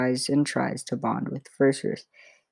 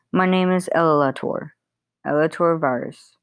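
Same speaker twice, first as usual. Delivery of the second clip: elf voice; 3 semitones higher than usual. Acted. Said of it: "says the elf".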